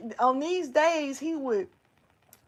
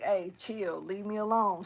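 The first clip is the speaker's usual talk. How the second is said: low, quieter dismissive retelling; brushing someone off; 4 semitones lower, 6 dB quieter than usual. Retold or imitated. Retelling waving off a bully, low and dismissive. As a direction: wave them off under your breath. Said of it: "I'm trying to waver it off like".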